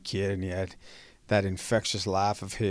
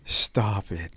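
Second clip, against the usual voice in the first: drawn-out, mildly mocking disbelief; slow, mild imitation of a friend's brush-off; mimicking his catchphrase; much slower than usual. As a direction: stretch it out slowly in lightly imitated disbelief. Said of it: "I'd always mimic him about it".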